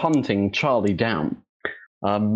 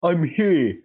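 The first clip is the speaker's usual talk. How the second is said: put-on old-timey old man voice; 6 semitones higher than usual. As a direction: tell it like a rambling old-timer. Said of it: "like, an old-timey old man voice".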